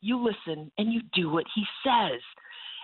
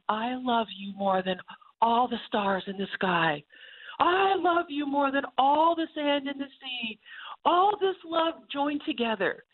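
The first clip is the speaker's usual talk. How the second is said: cheesy greeting card poem; 5 semitones higher than usual. Retold or imitated. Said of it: "it's terrible".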